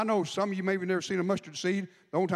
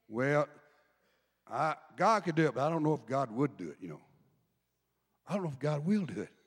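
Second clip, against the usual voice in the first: doubting believer; 5 semitones lower than usual. Pretend. Doubter voiced by the pastor.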